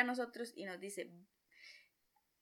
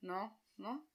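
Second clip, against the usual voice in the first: shocked; 8 dB quieter than usual. Retold or imitated. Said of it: "como que entro en shock".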